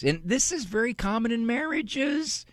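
ordinary delivery

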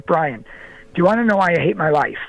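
quick, understated retold question; retold confession. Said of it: "almost breaks down and cries right in front of me".

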